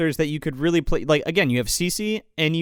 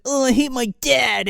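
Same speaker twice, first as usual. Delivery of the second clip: higher-pitched petulant outburst, imitated; mock pissed off; 6 semitones higher than usual. Host imitating character raging about his dad, mock pissed off. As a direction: throw a mock teenage strop. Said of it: "he gets all pissed off".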